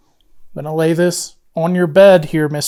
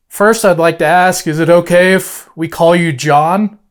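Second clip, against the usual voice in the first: talking to a ghost. Real, not acted. Addressing spirit of Mackey.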